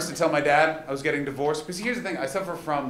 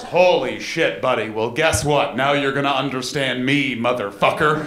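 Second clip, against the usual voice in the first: louder amused dad voice; gleeful dad; 2 semitones lower, 5 dB louder than usual. Retold or imitated. Dad on the phone, louder and gleeful, teasing his son. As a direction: relish it like a smug dad.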